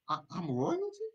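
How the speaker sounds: amazed disbelief. Acted. Preacher voicing a believer, stunned and high. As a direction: ask it like you can't believe your luck.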